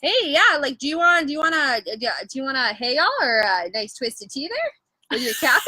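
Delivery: playful, lightly voiced Canadian buddy; Canadian accent. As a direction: offer a drink like a friendly Canadian. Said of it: "that's super Canadian".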